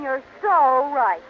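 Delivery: slow, syrupy agreement; drawn-out fawning yes; gushing agreement. Acted. Fawning wife to Barton, slow syrupy agreement.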